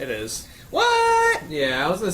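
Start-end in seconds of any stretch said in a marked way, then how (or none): 0.7-1.4 sudden very high disbelieving yelp; a squeaky, stunned what; shocked what. Real, not acted. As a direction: blurt it out in total disbelief. Shocked reaction to claim.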